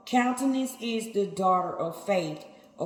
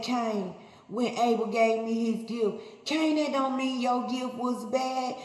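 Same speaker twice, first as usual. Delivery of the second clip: lightly raised, rebuking God voice; a hint of God scolding Cain; 3 semitones higher than usual. Preacher speaking as God to Cain, mild rebuke. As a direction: scold him gently but firmly, as God.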